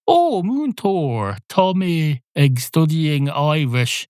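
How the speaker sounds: lightly voiced pupil addressing teacher; mock pupil voice. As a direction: play the keen schoolkid. Pupil voiced asking Irish teacher.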